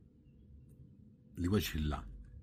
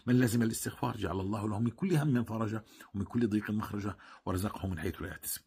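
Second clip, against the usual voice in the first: quick recitation; faster than usual. Acted. Rapid recitation of Quran verses.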